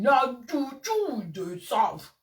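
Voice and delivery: very slow sarcastic echo; sarcastic drawl. Real, not acted. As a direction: stretch her slogan out to mock it. Sarcastic slow mock of slogan.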